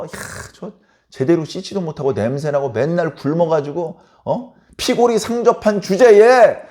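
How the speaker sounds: a sarcastic jab, dripping with contempt; mocking scorn. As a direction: scoff at them with fake admiration. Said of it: "하면서 서로 무시하고 업신여기는".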